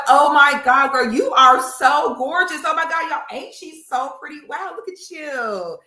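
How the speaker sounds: high, squealing over-the-top compliments; fake gushing girl. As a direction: gush with exaggerated fake delight. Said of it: "try to be a fake girl".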